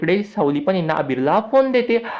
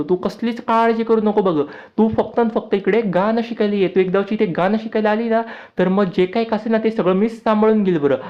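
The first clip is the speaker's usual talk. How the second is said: put-on pitched up for the young boy Abir; eager small boy, voice raised high; little boy Abir; 4 semitones higher than usual.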